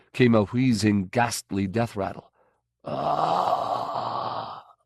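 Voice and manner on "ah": moan. Acted. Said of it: "it moaned loudly".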